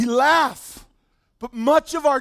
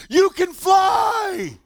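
high, loud, slow shouted declaration; hyped-up athlete; 8 semitones higher, 3 dB louder, much slower than usual. Retold or imitated. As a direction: stretch it out like a wild promise. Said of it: "he's so hyped up".

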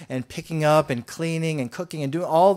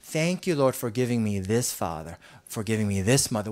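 grateful prayer; 5 semitones lower than usual. Retold or imitated. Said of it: "what if we just said".

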